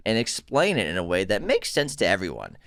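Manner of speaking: lightly voiced Boston accent; a hint of Boston in the reading. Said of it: "do this in a Boston accent".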